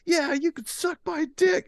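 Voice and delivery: very high, strained taunt; background yelling. Retold or imitated. Kid behind fake cop on the phone, yelling. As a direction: yell it like a brat from across the room. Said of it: "hear me in the background going".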